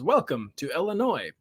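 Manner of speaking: lightly imitated robotic car voice. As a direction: say it like a stiff car announcement. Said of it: "in its really weird robotic voice".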